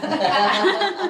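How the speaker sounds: loud real laugh; hearty laugh. Real, not acted. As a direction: burst out laughing. Laugh after church joke.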